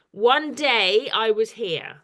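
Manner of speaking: slow, measured haiku line; reciting a poem. Shown as a demonstration. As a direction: read it out slowly as verse. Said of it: "it says".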